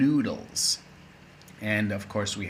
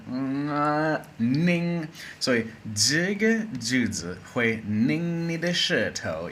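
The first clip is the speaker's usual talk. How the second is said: ordinary talk, nothing marked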